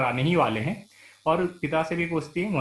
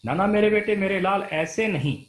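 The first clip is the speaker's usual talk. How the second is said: soothing mother; 3 semitones higher than usual. Acted. Mother calms her groaning son, lightly voiced. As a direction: soothe him like a worried mother.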